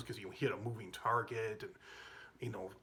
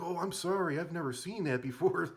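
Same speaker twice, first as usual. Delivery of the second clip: sheepish apology; 7 semitones higher, 5 dB louder than usual. Retold or imitated. Stoned student apologizing.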